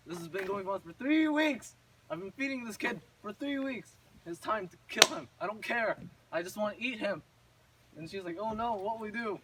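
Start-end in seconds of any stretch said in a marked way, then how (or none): 0.1-7.2 loud, exasperated outburst as the witch; impatient witch rant. Retold or imitated. Acted witch losing patience with feeding. 8.4-9.4 mock alarm. Gretel reacting to witch's threat.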